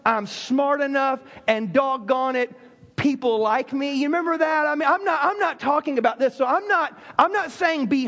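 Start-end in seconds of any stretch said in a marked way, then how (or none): 0.0-4.0 Stuart Smalley affirmation. Retold or imitated. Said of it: "Remember Stuart Smalley".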